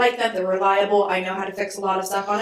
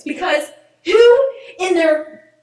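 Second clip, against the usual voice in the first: slow indignant rant; 3 dB louder, slower than usual. Real, not acted. Ranting to her friend about cruise control, slow and outraged. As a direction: drag it out, outraged and incredulous.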